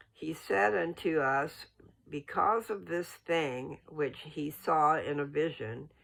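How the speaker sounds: measured, solemn reading of scripture; steady, formal scripture reading voice. Acted. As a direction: read it slow and reverent, like holy text.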